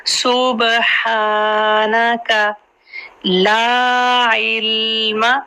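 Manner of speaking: ला held two counts, slow; इल्म with the ल having no vowel; ला इल्म slowly, long ला; Qur'anic recitation. Shown as a demonstration. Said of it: "ला टू हरकत है".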